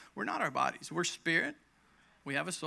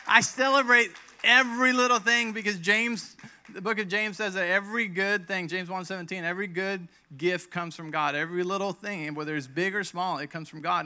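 much louder, higher fired-up proclaiming; excited preaching; 5 semitones higher, 10 dB louder than usual. Real, not acted. Preacher to congregation, loud and excited. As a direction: preach it out with joy.

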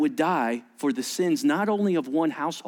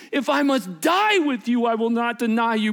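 raised, insistent declaration; emphatic vow; 5 semitones higher, 4 dB louder than usual. Retold or imitated. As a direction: act out a disciple yelling his pledge. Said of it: "he said emphatically".

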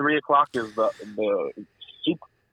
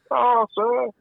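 higher, quick mock posh butler; hammed-up fawning butler voice; butler accent; 10 semitones higher than usual. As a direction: chirp it like an eager servant. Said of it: "an accent like".

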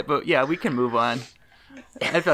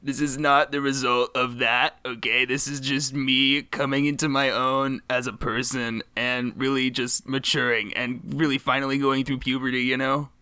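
put-on voice. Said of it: "Why are you doing this voice".

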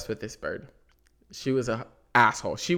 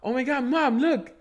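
high, louder fake delight; much higher mock thrill at a found pet; mock excitement; 11 semitones higher, 5 dB louder than usual. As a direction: pretend you found the lost bird. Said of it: "I was like".

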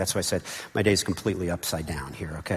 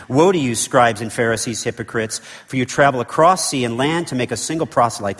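prophet preaching; 4 dB louder than usual. Acted. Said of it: "like an Old Testament prophet preaching here".

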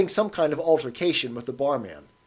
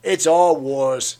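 vague; 7 dB louder, much slower than usual. A narrator's reading. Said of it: "said the old man vaguely".

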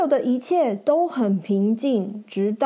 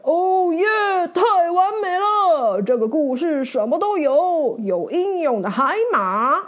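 hero thrilled with the perfect story; excited knight shouting; 2 semitones higher than usual. Acted. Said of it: "骑士喊着".

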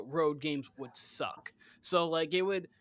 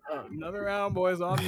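rowdy party animal; 3 semitones higher than usual. Pretend. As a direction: call it across the bar. Buying the bar a round.

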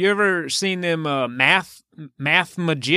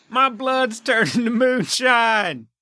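laughing, slow mock-horror shout; mock panic; 5 semitones higher, slower than usual. Blood turning to moonshine, slow mock-horror shout. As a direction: ham up the panic, drawn out.

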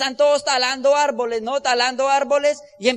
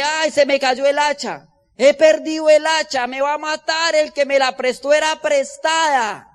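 panicked cry; 3 semitones higher, 4 dB louder than usual. Acted. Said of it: "Y él empieza a gritar".

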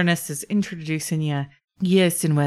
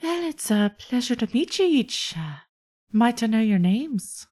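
lightly voiced polite dragonborn host, a bit higher; Iolasa's voice; 5 semitones higher than usual. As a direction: greet the guests courteously in character. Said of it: "and she says".

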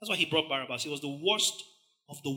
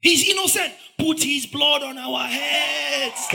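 much higher, loud, slow shout; mob shouting; 10 semitones higher, 8 dB louder, slower than usual. Acted. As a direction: roar it as the crowd. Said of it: "You're shouting".

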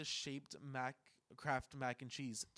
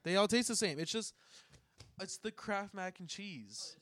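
higher, louder insistent arguing; heated insistence; 5 semitones higher, 6 dB louder than usual. Real, not acted. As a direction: argue your point with heat. Heated mock argument about mac.

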